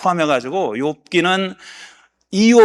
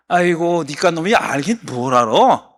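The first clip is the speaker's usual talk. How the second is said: mocking. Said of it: "비꼬는 겁니다. 조롱하는 거예요".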